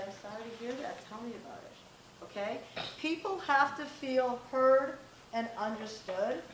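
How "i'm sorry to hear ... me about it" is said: put-on soft, caring reply to the kid; gentle empathy. Shown as a demonstration. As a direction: sound sorry and invite them to talk.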